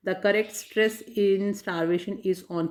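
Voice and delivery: slow, deliberate reading of the quiz line; slow question reading. Shown as a demonstration. Teacher reading a quiz question to students, slow and deliberate. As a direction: read each word out clearly and slowly.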